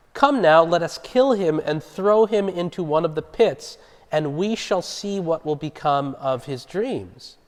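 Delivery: emphatic, measured Bible reading; scripture reading. A narrator's reading. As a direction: read the verse out to a congregation. Reads scripture aloud.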